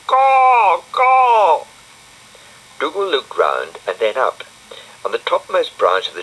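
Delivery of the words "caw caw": high loud cawing bird call; loud high crow cry. Acted. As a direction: caw like a crow up a tree. Crow calls again.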